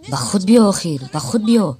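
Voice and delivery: loud, pleading call; urgent plea. Acted. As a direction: snap him out of it. Pleading him to wake up.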